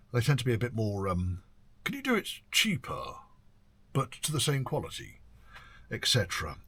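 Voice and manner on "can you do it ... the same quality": lightly put-on, higher haggling customer; mock a penny-pinching request in a mildly silly, raised voice; a touch of a silly high-pitched voice, imitating. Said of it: "it was a silly voice".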